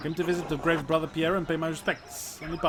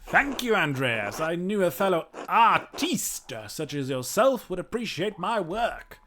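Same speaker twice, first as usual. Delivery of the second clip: kooky mad scientist; 3 semitones higher, 4 dB louder than usual. Acted. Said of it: "He's a weirdo".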